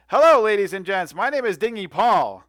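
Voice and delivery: bright eager dockhand introducing himself; cheery dock hustler. Acted. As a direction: hail the party like a friendly huckster. GM voices NPC greeting party.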